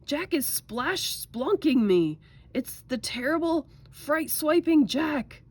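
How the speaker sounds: high, loud wail of terror; panicked bellow. A narrator's reading. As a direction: bellow in mounting dread, dragging out the nasty words. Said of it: "bellowed the flesh lump eater".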